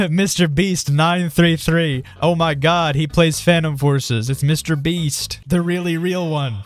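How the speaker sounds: high, slow, amazed; thrilled disbelief at a famous name; excited. Real, not acted. Spots Mister Beast in lobby.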